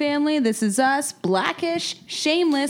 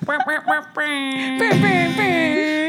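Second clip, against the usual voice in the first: character impression; 6 semitones higher, much slower than usual. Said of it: "Bar Bagadaducci".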